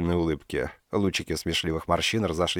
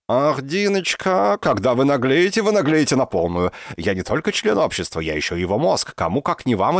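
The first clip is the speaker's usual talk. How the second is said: high, louder theatrical sighing; exasperated professor; 5 semitones higher, 3 dB louder than usual. A narrator's reading. Professor theatrically scolds Dinka's greed, high and drawn.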